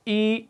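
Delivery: ای as a long clear ee; ای کی آواز صاف نکالیں; vowel ee demo. Shown as a demonstration. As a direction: sound out ای as a long ee. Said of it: "ہم آواز کیا نکالیں گے".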